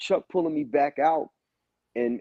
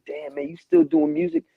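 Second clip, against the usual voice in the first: much higher, incredulous mock voice; doubting people; 14 semitones higher, 3 dB louder than usual. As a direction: play a surprised old acquaintance. Imitating people who doubt him.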